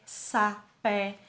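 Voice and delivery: "sapé" split into sa, pé; syllable by syllable. Shown as a demonstration. Teacher counting syllables for pupils, syllable by syllable. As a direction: say "sapé" in two separate beats. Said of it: "duas sílabas".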